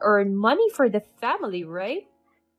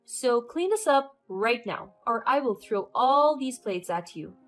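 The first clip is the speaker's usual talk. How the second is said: scolding; 3 semitones higher, 4 dB louder than usual. Acted. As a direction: put her in her place, threatening. Mother-in-law scolds and threatens.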